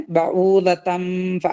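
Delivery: slow recited phrase; tajweed recitation; Quran recitation. Shown as a demonstration. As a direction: chant it slowly. Recites, then repeats.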